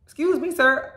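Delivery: put-on high-pitched old-lady plea. Old lady pleading before judgment, old-lady voice. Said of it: "before she does, she's like".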